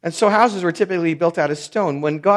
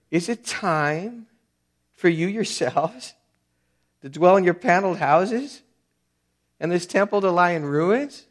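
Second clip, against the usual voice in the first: slow rebuke; 4 semitones higher than usual. Acted. Preacher reads God's rebuke in Haggai.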